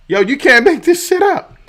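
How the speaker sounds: stunned outrage. Real, not acted. Outraged at coach's quote.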